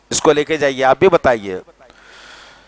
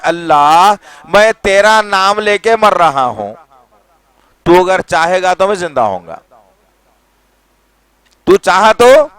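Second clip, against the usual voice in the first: an earnest, louder, slowed plea; speaking to God; 4 dB louder than usual. Shown as a demonstration. Preacher voicing the prayer to God, earnest plea. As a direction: call out to God sincerely, building at the end. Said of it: "मैं अल्लाह से बोल रहा हूँ".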